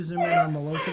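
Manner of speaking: high, fast, through laughter; laughing. Real, not acted. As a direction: squeal it while cracking up. Laughing fit, mispronouncing name.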